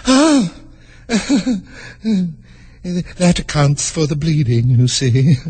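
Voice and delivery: smiling, pleased explanation; lightly smiling queen; with a smile. Acted. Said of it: "with a smile".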